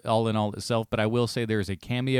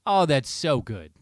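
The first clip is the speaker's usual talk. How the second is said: delighted gush; 4 semitones higher, 5 dB louder than usual. Retold or imitated. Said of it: "it's just like".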